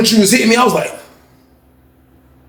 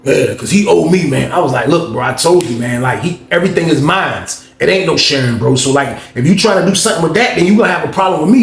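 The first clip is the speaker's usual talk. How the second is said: low tough voice; 4 semitones lower than usual. Retold or imitated. Cellmate warning the other man, low threatening voice. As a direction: drop low and lay down the law. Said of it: "He was like".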